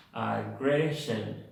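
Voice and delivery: "Aggression" with the A and the O both reduced to uh; two schwas. Shown as a demonstration. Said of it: "dos schwas".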